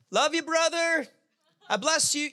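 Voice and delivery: high-pitched, sing-out friendly call; cheerful blessing. Pretend. Driver to someone cutting them off, high cheery blessing. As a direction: call out a mock-sweet blessing. Playing a pure-hearted driver cut off.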